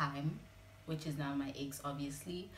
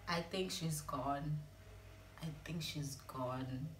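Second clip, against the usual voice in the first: slow and softer, lower; slow, hushed dread; 4 semitones lower, 5 dB quieter, slower than usual. Retold or imitated. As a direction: say it slowly, barely believing it. Telling ex mom has died.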